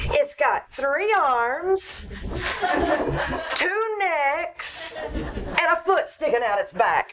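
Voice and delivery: slow, giggling through the list; can't keep a straight face; amused confession, laughing at herself; laughing description. Acted. Liz describes the botched sweater.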